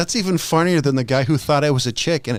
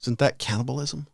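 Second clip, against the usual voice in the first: quiet disgusted oof; 9 dB quieter, slower than usual. Retold or imitated. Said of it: "I'm like".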